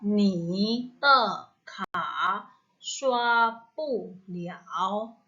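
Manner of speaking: each syllable spoken slowly with its own tone; ni te ka shua pu liao, syllable by syllable with clear tones; careful tones. Shown as a demonstration. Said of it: "saya ulang, eh, dari kalimat awal". (baca nadanya satu per satu dengan jelas)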